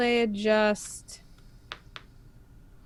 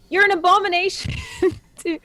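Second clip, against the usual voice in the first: put-on high, fast French-Canadian accent breaking into a laugh; 9 semitones higher, 3 dB louder, faster than usual. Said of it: "I yell that in my accent".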